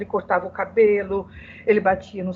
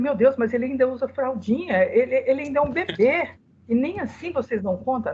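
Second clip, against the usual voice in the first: higher-pitched disbelieving appeal; retold incredulous protest; 3 semitones higher than usual. Mother protesting to the nuns about her toddler, incredulous. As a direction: plead the case in mild retold disbelief.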